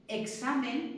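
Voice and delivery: "examen" as ek-SA-men; "examen" with both sounds of the X. Shown as a demonstration. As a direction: say "examen" with a clear K before the S. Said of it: "lo tendríamos que decir examen".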